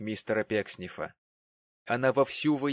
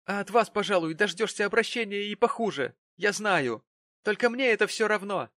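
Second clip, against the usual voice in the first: high-pitched tearful grievance; upset, hurt protest; bursting into tears; 9 semitones higher, 4 dB louder than usual. A narrator's reading. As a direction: wail the complaint. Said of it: "Тут она ударилась в слёзы".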